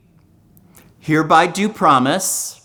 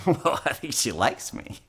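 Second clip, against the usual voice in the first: hopeful man thinking; 8 dB quieter than usual. Acted. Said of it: "says to himself".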